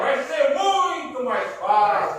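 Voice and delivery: slow, high and loud, very clear; over-articulate each word for the class; slow clear demo. Shown as a demonstration. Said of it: "Sem a caneta".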